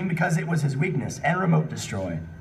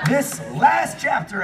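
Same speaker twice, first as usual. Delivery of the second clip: mock announcer; grand announcement; 5 semitones higher, slower than usual. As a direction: declare it like a big reveal. Announcing last chapter.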